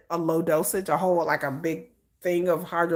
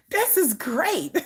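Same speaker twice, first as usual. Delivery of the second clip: laughing; 8 semitones higher, much slower than usual. Real, not acted. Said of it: "I'm gonna be cross-eyed".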